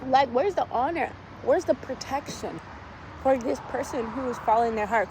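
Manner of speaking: high, cracking mock despair; retold crying outburst. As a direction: plead at the sky, half-laughing. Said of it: "And I'm sitting there crying".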